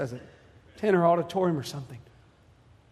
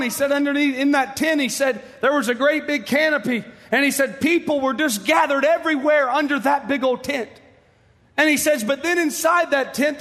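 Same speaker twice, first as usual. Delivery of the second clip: raised, higher-pitched pulpit storytelling; rousing preaching; 9 semitones higher, 4 dB louder than usual. Real, not acted. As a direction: carry the vision along with mounting fervour. Preaches, retelling the vision.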